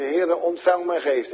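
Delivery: dying believer's final cry. Acted. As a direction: lift the last words to God. Believer's dying prayer voiced.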